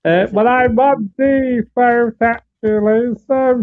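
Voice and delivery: muffled, mic partly covered. Real, not acted. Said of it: "'Cause you sound muffled now".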